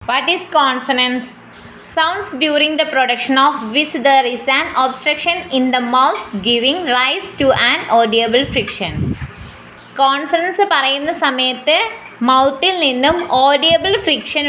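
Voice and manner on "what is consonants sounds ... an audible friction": very slow, word by word definition; slow classroom dictation of a definition. Shown as a demonstration. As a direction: read it out slowly so students can write it down. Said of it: "dictating a definition".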